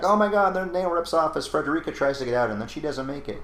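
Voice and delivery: high, loud dramatic gasp of a line; mock dramatic exclamation. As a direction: ham up a movie flashback line. Mock movie flashback dialogue.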